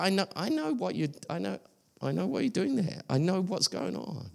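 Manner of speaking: lightly voiced God, quiet and understanding; softly knowing God. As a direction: say it gently, like you've seen it all. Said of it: "God's like".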